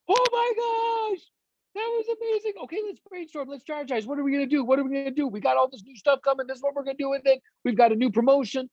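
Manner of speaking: high squealed opening into eager chatter, easing slightly; palpable excitement. Acted. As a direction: act out a giddy team all bursting with ideas. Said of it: "that energy becomes palpable".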